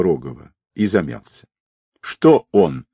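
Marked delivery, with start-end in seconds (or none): 2.0-2.9 urging. A narrator's reading. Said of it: "подстегнула женщина".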